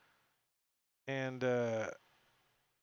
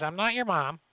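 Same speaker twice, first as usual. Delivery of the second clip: loud, raised in-character comeback; acted, indignant-style yell; shouted retort; 7 semitones higher, 7 dB louder than usual. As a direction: throw it back high and loud. Game master voices attacker's retort.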